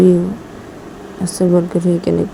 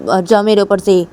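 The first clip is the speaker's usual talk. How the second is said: angry shout; 2 semitones higher, 6 dB louder than usual. Acted. Ruhi फिर चिल्लाती है.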